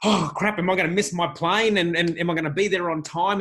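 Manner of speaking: half-hammed fretting traveller; mock travel panic. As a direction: act out the flustered rush to the airport. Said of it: "race off somewhere and go".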